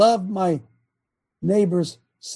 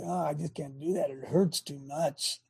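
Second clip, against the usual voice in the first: mock whining; 9 dB quieter than usual. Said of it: "sit around and say".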